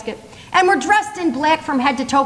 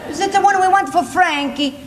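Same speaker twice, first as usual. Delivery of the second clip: mocking; 3 semitones higher than usual. Comic mocking repeat of mother's line.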